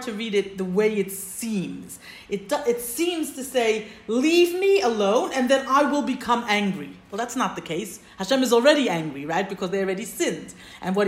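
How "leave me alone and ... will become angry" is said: booming divine voice. Acted. Teacher voicing God's words.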